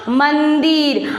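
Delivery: "मंदिर" drawn out slowly with a long n; anusvara sounded. Shown as a demonstration. Teacher confirming the corrected word, "मंदिर" slow with its n held. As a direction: stretch "मंदिर" to bring out the half न. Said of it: "शब्द बन गया है मेरा".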